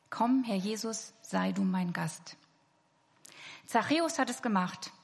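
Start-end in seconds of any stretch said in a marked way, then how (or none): 0.1-2.4 slow prayer. Shown as a demonstration. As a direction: let each word sink in, praying. Repeated prayer, slowed down.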